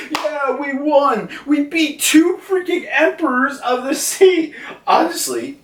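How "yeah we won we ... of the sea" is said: much higher, triumphant mock cheer; cheering samurai. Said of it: "cheering up for excitement, being like".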